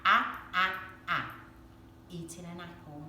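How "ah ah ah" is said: teacher modelling the "ah" sound; phonics ah sound. Shown as a demonstration. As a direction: open "ah, ah, ah" said clearly and a bit louder. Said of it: "ah sound".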